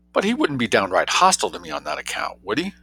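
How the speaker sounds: high, quick worried question; anxious. A narrator's reading. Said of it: "Jane asked anxiously".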